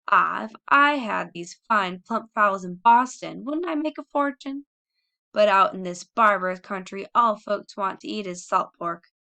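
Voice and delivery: loud, slowed indignant rant; trembling with anger. Acted. Mother tells the children why she kept the turkeys, loud anger. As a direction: pour out her scorn for the country. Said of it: "She was trembling with anger and excitement".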